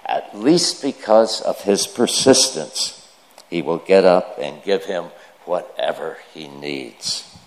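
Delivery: measured, emphatic public Bible reading; formal reading with firmly stressed key words; scripture reading. Acted. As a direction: read it out deliberately, pausing between phrases. Reads scripture aloud to the congregation.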